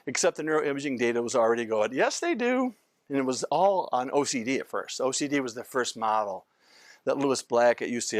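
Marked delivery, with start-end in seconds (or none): 1.9-2.8 high, emphatic contradiction; emphatic retort. Retold or imitated. Brain scans answering doubters, high and emphatic. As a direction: shoot the doubt down triumphantly.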